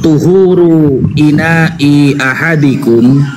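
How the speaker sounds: slow recitation. Acted. Recites hadith in Arabic.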